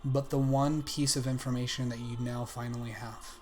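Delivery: measured narration with long dramatic pauses; game master narration. A narrator's reading. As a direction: deliver the verdict slowly, piece by piece. Game master narrates the search result.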